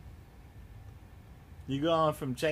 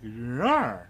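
playful mock roar; 4 semitones lower, 5 dB louder than usual. Imitated animal growl in play.

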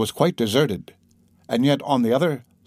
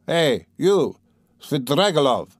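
raised angry shout at the dandy; 2 semitones higher than usual. Acted. Raskolnikov confronting the dandy, shouting. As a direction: yell it in rage. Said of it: "he shouted".

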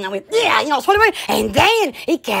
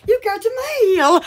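higher, perky mail alert; perky computer greeting; 4 semitones higher than usual. Retold or imitated. Imitating the missed dial-up feature, high and perky. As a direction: imitate a chirpy computer announcement. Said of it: "you're so perky".

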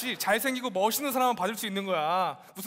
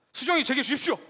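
heartfelt shout; 7 semitones higher, 5 dB louder than usual. Pretend. Mock proposal to girlfriend's father.

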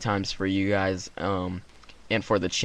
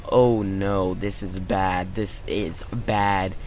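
mock dread; 3 semitones lower, much slower than usual. Boy at the dance realizes trouble, low slow mock dread. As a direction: drag it out like slow-dawning disaster. Panicking about embarrassment at dance.

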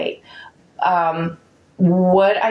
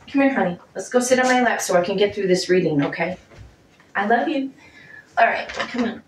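coaxing the dog; 2 semitones higher, faster than usual. Real, not acted. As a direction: coax the little dog up onto your lap, sweetly. Coaxing the dog onto her lap.

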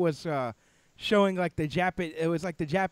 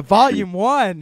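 slow, louder movie-trailer announcer voice; mock announcer; 13 dB louder, slower than usual. Announcing an imagined book title.

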